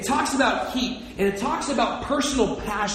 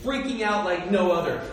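ordinary talk, nothing marked

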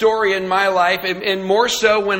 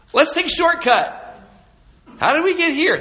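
baffled; 9 semitones higher than usual. Retold or imitated. Acted lost hunting dialogue.

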